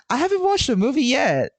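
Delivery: high-pitched retold protest; high and animated quote. Retells own earlier reaction.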